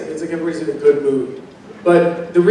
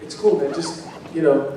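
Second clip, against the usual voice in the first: soft, easygoing reassurance, imitating a co-star; retold reassurance; 8 dB quieter than usual. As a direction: play it down softly, like a laid-back colleague. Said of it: "he kinda goes".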